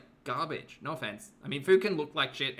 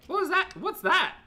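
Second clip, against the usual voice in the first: amazed shriek; 7 dB louder than usual. Real, not acted. Amazed by friend's burps.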